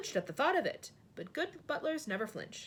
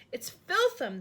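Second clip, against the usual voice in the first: higher, louder disgusted outburst; disgusted cry; 9 semitones higher, 6 dB louder, slower than usual. A narrator's reading. Giant hates the coffee, loud disgusted cry. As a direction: spit out the word in disgust. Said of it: "the B F G cried out".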